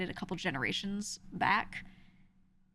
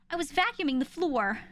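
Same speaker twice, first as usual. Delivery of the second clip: higher, louder, "floor" with a full R; family accent demo; 8 semitones higher, 3 dB louder than usual. Shown as a demonstration. Speaker imitating her family's accent, higher and louder. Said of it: "They literally say like that".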